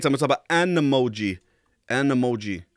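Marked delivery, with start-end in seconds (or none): 0.5-1.4 "an Emoji" wie im Englischen gebunden; "an" als englischen Artikel vor "Emoji" sprechen; englischer Artikel AN. Shown as a demonstration. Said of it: "Auf Englisch geht's". 1.9-2.6 "An Emoji" englisch gebunden vorsprechen; "An" als englischen Artikel an "Emoji" binden; englischer Artikel AN. Shown as a demonstration. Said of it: "Auf Englisch geht's".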